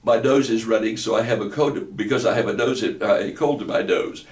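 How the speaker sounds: "nose" said as "dose", blocked nose; "cold" talk with a blocked nose, "nose" becoming "dose"; stuffed-up cold. Shown as a demonstration. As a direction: say "My nose is running" denasal, n and m turned to d and b. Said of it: "the sound of a child with a, a cold".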